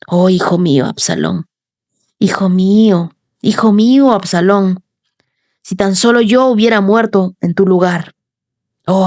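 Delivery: understated, mournful cry for a lost son; grieving lament. Acted. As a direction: let a father's grief sigh through each name. (lamento contenido de un padre por su hijo)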